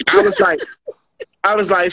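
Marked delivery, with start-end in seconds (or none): 0.1-1.4 laughing. Real, not acted. Breaking into laughter mid-story.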